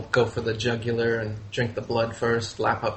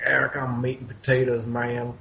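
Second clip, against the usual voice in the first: lightly put-on meat-loving dad voice; dad impression. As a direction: mildly send up a stubborn dad. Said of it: "didn't even say it in that voice".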